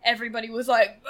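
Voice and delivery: ordinary talk, nothing marked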